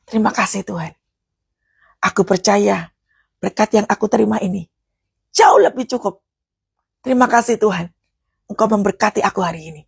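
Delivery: modelled thankful prayer. Shown as a demonstration. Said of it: "contoh katakanlah".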